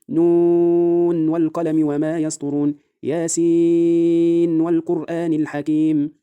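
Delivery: measured tajweed chant, clear unmerged n at the end of نون and ياسين; Quranic recitation with izhar. Shown as a demonstration. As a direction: chant slowly, holding long vowels in نون and ياسين, clear n before the w. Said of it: "أيضًا فيها الإظهار".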